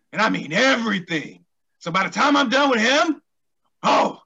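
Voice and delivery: heated heel promo; wrestling promo. Acted. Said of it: "cut a promo".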